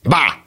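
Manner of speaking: high, loud bogeyman shout; mock scare bá. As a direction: jump at them with a bá. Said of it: "rémülten érezte". (magas, hangos ijesztgető bá)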